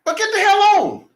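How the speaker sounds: high-pitched, squealing through laughter; laughing outburst. Real, not acted. Joking with co-host about coach leaving, laughing outburst. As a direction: crack up while protesting.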